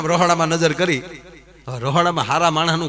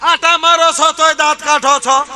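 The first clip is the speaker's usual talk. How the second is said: thieves bickering; 11 semitones higher than usual. Acted. Thieves keep bickering while running.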